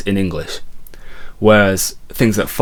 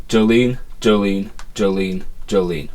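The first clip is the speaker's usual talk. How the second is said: "Jolene" spoken jo-LEAN each time; stress on second syllable. Shown as a demonstration. Teacher saying the lyric first, "Jolene" stressed jo-LEAN. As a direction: say "Jolene" plainly with weight on the "lene". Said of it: "the emphasis is on lean and not on Jo".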